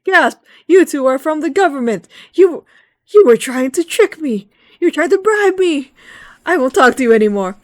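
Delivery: very high, loud accusing screech; hammed-up fairy tantrum at the government envoys; outraged sylph shriek. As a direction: shriek that you've been tricked and bribed. Retold sylph accusing visitors angrily.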